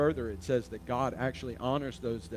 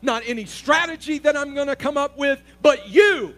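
high, loud, impassioned preaching cry; preaching at full force; 10 semitones higher, 10 dB louder than usual. Acted. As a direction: pour it out to God at the top of the voice. Preaching climax to the Lord.

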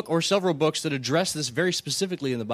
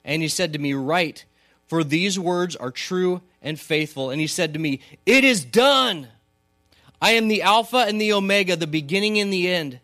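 scripture reading. Acted. Pastor reading Revelation to the congregation, reverent and measured. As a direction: read the verses as holy words.

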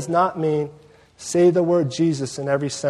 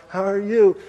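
higher, put-on politeness; forced greeting; 5 semitones higher than usual. Reluctant passenger finally asks the seatmate, artificially polite. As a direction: give in with a mock-polite question.

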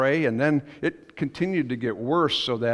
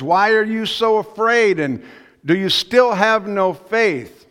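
Jesus questioning; 7 semitones higher, 8 dB louder than usual. Retold or imitated. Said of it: "Jesus responds with".

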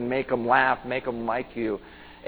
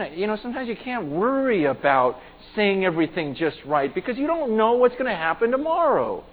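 usual speaking voice

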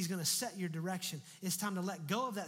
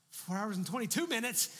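exasperated; 4 semitones higher, 4 dB louder than usual. Retold or imitated. Exasperated at slow flight tracker.

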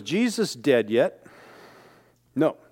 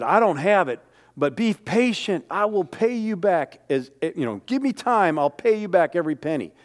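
higher, pleading voice of a man in debt; pleading debtor; 5 semitones higher than usual. Retold or imitated. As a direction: beg for more time. Debtor pleading in retold parable.

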